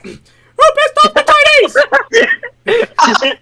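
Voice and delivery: angry falsetto mouse shout; Mickey. Acted. Mouse boss demanding who is to blame, furious falsetto. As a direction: yell it very high and drawn out. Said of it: "doing my Mickey, like, impression".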